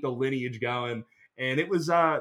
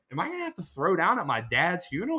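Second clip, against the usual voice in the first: laughing; 4 semitones higher than usual. Real, not acted. Laughing at funeral fight thought.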